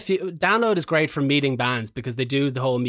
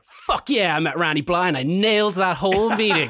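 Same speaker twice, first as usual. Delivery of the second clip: higher-pitched, pumped-up bragging; thrilled, triumphant boast; elated self-talk; 3 semitones higher than usual. Retold or imitated. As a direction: replay it as giddy self-congratulation. Excited self-talk after meeting his idol.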